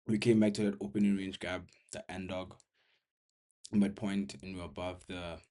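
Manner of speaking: winded, pushing words between breaths; breathless after exertion. Real, not acted. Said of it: "trying to catch my breath".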